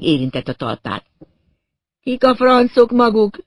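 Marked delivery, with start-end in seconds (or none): 2.0-3.4 high, loud, slow outraged yell; bellowing. A narrator's reading. Hanging man demanding who they are, bellowing. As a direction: yell it at the top of your lungs. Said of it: "üvöltötte, hogy a száján kifért".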